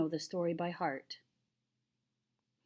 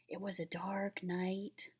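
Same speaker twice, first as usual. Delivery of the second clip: hushed whisper; 6 dB quieter than usual. Acted. Boy whispers the story opening.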